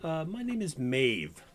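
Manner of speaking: put-on a light British accent for the barmaid; a touch of British lilt, lightly voiced. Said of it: "she has a bit of a British accent".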